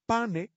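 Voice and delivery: "Pane" con e final latina; Latin pane. Shown as a demonstration. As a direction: di "Pane" en dos sílabas. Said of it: "el pane lo convertimos en el pan". ("Pane" latino)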